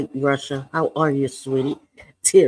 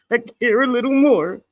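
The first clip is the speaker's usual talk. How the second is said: "I care a little more" said again through a laugh, higher; laughing repeat; 5 semitones higher than usual. Real, not acted. Streamer joking to chat, laughing repeat. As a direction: laugh the words out with a giggle. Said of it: "repeats it laughing".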